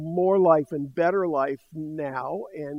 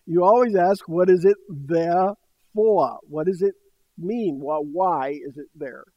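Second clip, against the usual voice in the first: put-on Texas preacher accent; 5 dB louder than usual. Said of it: "with a thick Texas accent".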